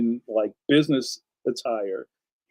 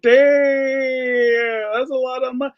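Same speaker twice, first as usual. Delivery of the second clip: high, louder mock dismay; mock shocked viewer; 10 semitones higher, 4 dB louder, much slower than usual. Voicing a viewer stunned by costs, high mock dismay. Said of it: "Paul Payne's like".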